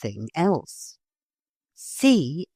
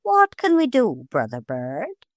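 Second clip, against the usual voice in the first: high then dropping bird voice; gull master's voice; 4 semitones higher than usual. A narrator's reading. Master gull offers help to the parrot, high. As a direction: ask like an eager sea bird.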